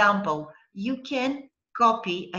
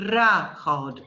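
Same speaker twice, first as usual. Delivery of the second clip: "ra, hod" louder, as the second piece; separated syllables; 3 semitones lower, 5 dB louder than usual. Shown as a demonstration. Teacher finishes first way of splitting, separated syllables. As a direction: land firmly on "ra, hod" after the break. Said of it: "That's the first way".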